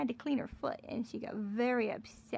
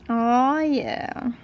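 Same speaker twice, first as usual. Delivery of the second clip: excited shout; 13 dB louder than usual. Real, not acted. Reacting to a good roll.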